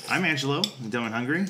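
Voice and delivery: talking through a mouthful of food; words round a bite of food; mouth full. Real, not acted. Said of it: "I'm full with food in my mouth".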